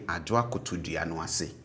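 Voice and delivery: Twi "Ajua koto dua no ase" said as a model; Twi sentence. Shown as a demonstration. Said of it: "we would say".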